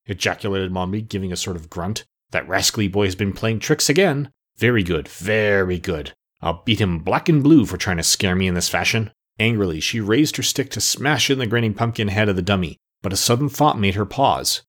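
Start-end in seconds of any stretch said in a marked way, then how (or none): 2.3-9.1 put-on low, cross old witch; a lightly voiced grumbling hag. Mombi angry at the trick.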